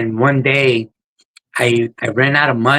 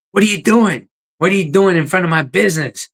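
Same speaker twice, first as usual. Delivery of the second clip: angry shout; 6 semitones higher than usual. Retold or imitated. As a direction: bark it out like a furious shop owner. Owner yelling at sleeping man.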